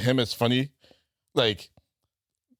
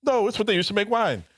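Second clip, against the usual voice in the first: put-on high drunk voice; 7 semitones higher than usual. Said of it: "And you're like".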